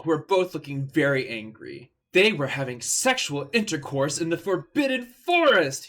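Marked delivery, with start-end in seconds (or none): 2.1-5.9 mild furious yell. Acted. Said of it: "he yelled in a furious voice".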